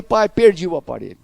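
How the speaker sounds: imitating an upset daughter; retold tearful daughter. Daughter telling her father she lost the appliance, mock tearful. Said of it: "ela chega chorando".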